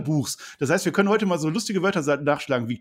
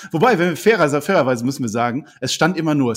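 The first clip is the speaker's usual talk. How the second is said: overdriven mic crackle; clipping, distorted microphone; fuzz distortion; 8 dB louder than usual. Real, not acted. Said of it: "du übersteuerst ja jetzt schon".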